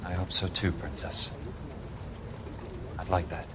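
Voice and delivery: low, soft farewell; tender. Acted. Hoping to meet his princess again, tender. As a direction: drop it low and soft for a fond goodbye.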